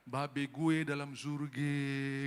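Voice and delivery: put-on slow Betawi accent, A turned to E. Pastor imitating a Betawi praying the Lord's Prayer, slow Betawi accent. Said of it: "itu orang Betawi".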